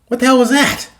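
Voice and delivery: high-pitched startled reaction; startled question. A narrator's reading. Cadet reacting to booms at the door, startled. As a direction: jump up in pitch, taken aback.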